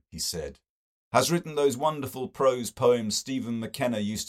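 effusive and delighted, savouring the French; enthusing to the circle about French Hamlet; Mister Best. Acted. Mister Best's gushing dialogue.

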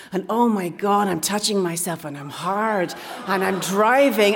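loosely imitated foreign accent, running on breathlessly; rough mock accent of a smitten caller; Borat. Woman retells her Greek date's steamy voice message, rough Borat-like accent. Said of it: "he sounded a bit like Borat".

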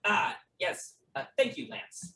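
a mild, polite host's thanks; slight smile. Acted. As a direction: thank him with a small smile. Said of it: "Herb smiles slightly and says".

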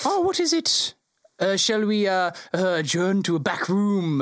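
the GM voicing the Lord Mayor, high and fussy. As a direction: pitch it way up like a flustered dignitary.

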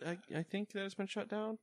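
words around a held sneeze; holding back a sneeze. Real, not acted. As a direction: speak while suppressing a sneeze. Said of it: "I'm trying not to sneeze".

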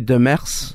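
Demers the Quebecois French way, "duh-MEHRS"; French pronunciation. Shown as a demonstration. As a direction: rasp the French r in Demers, "de-MEKHS". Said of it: "in French we would say".

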